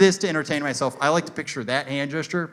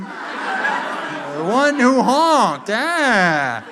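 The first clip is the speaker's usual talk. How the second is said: very slow, loud, drawn-out proclamation; high, stretched mock-heroic call; mock-epic title; 6 semitones higher, 6 dB louder, much slower than usual. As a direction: intone it like a fantasy legend. Mock fantasy title for the honker.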